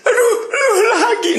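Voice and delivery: high, hammed-up whimper; mock whining. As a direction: pretend to moan at trouble. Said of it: "Kalau kita nangis".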